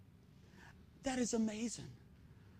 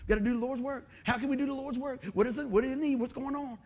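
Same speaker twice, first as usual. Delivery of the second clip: eager excitement; 5 semitones higher than usual. Retold or imitated.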